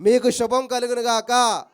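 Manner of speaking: 1 solemn blessing. Acted. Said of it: "నేను మీకు చెప్తున్నాను ఇప్పుడు".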